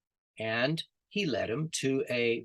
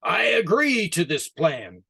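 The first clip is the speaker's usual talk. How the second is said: lion's reply; 3 semitones higher, 3 dB louder than usual. Acted. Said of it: "he roared".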